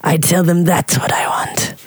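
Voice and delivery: put-on man in a light Russian accent. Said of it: "I love your Russian accent".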